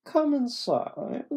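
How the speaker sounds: high, slow character voice; acted character line. Narrator's dialogue to ailing Dempsey.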